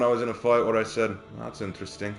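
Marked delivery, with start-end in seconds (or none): 1.4-2.1 soft, understated impression of a fellow streamer; Havoc. Streamer quoting a line to its owner, hushed impression. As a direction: drop the volume and toss it off as a catchphrase. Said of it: "That was a Havoc line".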